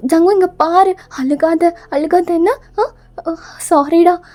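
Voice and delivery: mild panic, apologising; a flustered mother soothing her child; halting, repeated plea for forgiveness; panicked apology. Acted. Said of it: "நீங்க அப்படியே ரொம்ப panic ஆகுறீங்க".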